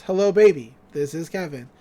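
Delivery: flat robotic voice. Retold or imitated. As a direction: speak like a robot. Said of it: "a real robotic voice says".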